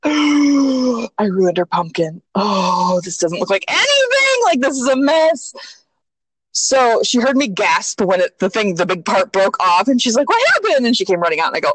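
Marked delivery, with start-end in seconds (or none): 0.0-5.5 mock dismay. Re-enacts dismay at broken pumpkin. 10.3-10.9 high-pitched imitation of a worried child; child's alarmed question. Voices child running out alarmed.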